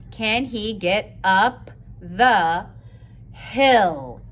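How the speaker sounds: drawn out, word by word; slow dictation. Shown as a demonstration. Teacher dictating the sentence slowly to young writers. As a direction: say each word slowly while writing. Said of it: "Slow down and take it slow".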